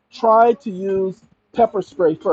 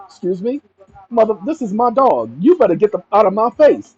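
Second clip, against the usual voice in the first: indignant retort; 3 semitones higher, 3 dB louder than usual. Pretend. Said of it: "That's my response".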